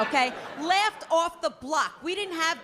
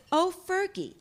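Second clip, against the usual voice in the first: mock casual mom. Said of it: "just making conversation".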